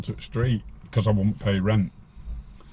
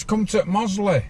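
imitating Tommy; 8 semitones higher than usual. Tommy's invitation, voiced.

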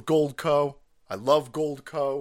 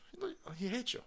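breathy whisper of the real punchline; whispered aside; 7 semitones higher, 15 dB quieter, faster than usual. Retold or imitated. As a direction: lean in and whisper it.

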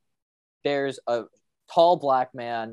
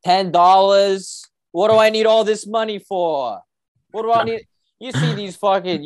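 much higher, louder, yelling in mock outrage; hammed-up furious rant; 6 semitones higher, 6 dB louder than usual. Fed-up local ranting at the rider about all that money, high and yelling. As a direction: rage at the fool wasting money.

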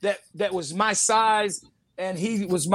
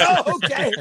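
surprised acceptance; 8 semitones higher, 4 dB louder than usual. Retold or imitated. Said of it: "I said".

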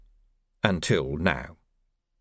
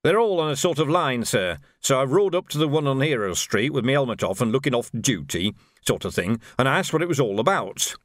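informal soldier's voice, higher at the start; trooper reporting; 3 semitones higher than usual. Acted. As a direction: recount the scouting to an officer.

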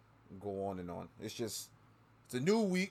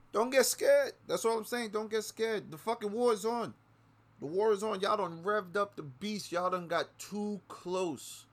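much higher and louder, slowing at the end; heated warning shout; 10 semitones higher, 4 dB louder than usual. Real, not acted. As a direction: warn them like a battle cry. Warning rant peaks.

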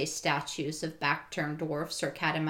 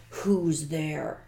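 growling lion. Acted. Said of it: "said in a growling voice".

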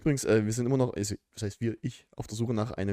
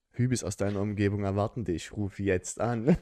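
chipper 1950s ad; 4 semitones lower than usual. Pretend. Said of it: "einen Hübi-Werbeblock einfach mit einbauen".

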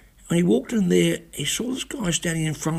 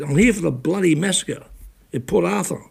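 firm, raised retelling of the same anger; angry retort; 4 semitones higher than usual. Retold or imitated. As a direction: repeat it with clear irritation. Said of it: "I was really angry".

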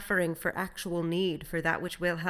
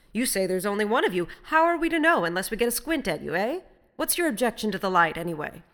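loud, raised, suspicious questioning; challenging sailor; 3 semitones higher, 8 dB louder than usual. A narrator's reading. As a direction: demand answers from the stranger across the water. Challenging a suspicious stranger at sea.

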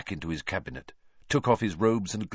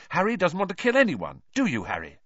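high, loud panic easing into a question; panicky; 12 semitones higher, 4 dB louder, faster than usual. A narrator's reading. Hermione seeking Harry's assurance he won't kill, panicky. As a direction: protest in alarm, then check anxiously. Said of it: "in a panicky voice".

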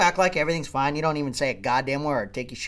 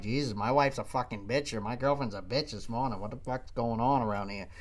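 griping to friend; 6 semitones lower, 10 dB quieter than usual. Retold or imitated. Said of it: "texting your best friend".

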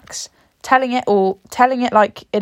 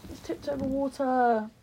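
shocked gasp; 4 semitones higher, slower than usual. Real, not acted. Water glass tipped over.

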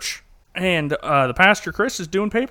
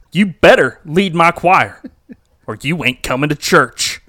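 demanding threat; 7 dB louder than usual. Retold or imitated. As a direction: lay down the ultimatum. Pastor threatens the choir lady.

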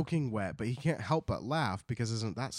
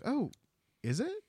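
high, innocent question; naive wonder; 13 semitones higher than usual. Acted. Gnome King learning his name, high and childlike. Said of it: "he's like".

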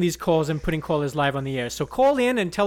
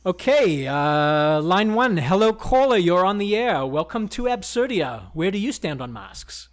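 smooth radio host; 3 dB louder, slower than usual. Acted. Host greeting caller on radio.

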